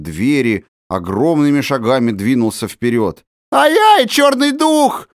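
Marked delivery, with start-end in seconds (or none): 3.5-5.1 very high, loud squeal of fright; terrified shriek. A narrator's reading. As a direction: shriek in panic. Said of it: "взвизгнул не своим голосом Никс". (истошный визг от страха)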